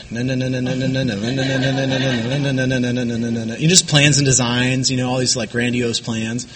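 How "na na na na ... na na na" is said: monotone na na babble; droning na na. Retold or imitated. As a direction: chant the racing thoughts as empty noise. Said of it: "I would just sit there and be like".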